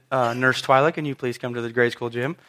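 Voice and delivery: low, soft, deliberately calm radio request. Retold or imitated. Teacher radioing the school nurse while hurt, very calm. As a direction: retell it with understated, composed calm. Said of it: "I very calmly said".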